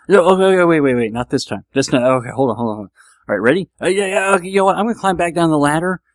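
mock nervous stalling; acted flustered retreat, tumbling repeats; panicky backing out. Child balking on the high dive, panicky backing out.

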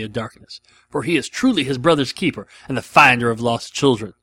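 a hint of a movie hitman's sermon; lightly voiced Jules. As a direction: recite it with measured, preaching emphasis. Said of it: "was my accent racist?".

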